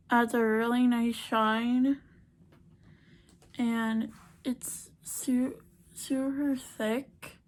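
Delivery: talking with mouth open; mouth held open. Real, not acted. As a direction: lips apart while applying gloss. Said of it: "I'm trying to talk with my mouth open is hard".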